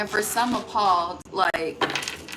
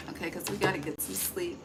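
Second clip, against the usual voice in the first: ordinary delivery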